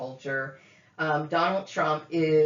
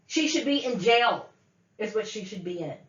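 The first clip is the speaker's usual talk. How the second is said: raised, indignant pitch; angry condemnation; 3 semitones higher than usual. Real, not acted. Woman condemning her relative to jail, angry. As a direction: pronounce an outraged sentence.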